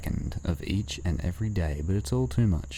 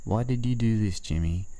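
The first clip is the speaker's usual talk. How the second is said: higher-pitched pleading questions to himself; self-reproach; 4 semitones higher than usual. Acted. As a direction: lift the pitch on each "why did you", then drop.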